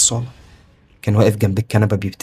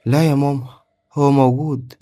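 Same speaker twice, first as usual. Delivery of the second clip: put-on higher-pitched child voice, insisting; mildly hurt child voice; upset little boy; 4 semitones higher than usual. A narrator's reading. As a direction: voice an upset child protesting to his mother. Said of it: "بصلي وهو زعلان".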